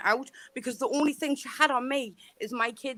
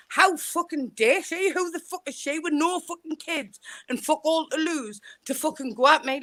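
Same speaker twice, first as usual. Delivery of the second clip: furious rant; 4 semitones higher than usual. Real, not acted.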